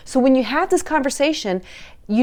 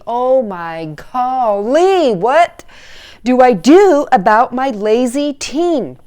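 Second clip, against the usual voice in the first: exasperated parent; 2 semitones higher, 5 dB louder, slower than usual. Retold or imitated. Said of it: "you are probably at your wits' end thinking".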